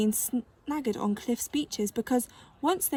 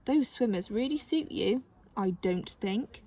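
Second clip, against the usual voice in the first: sarcastic. Acted.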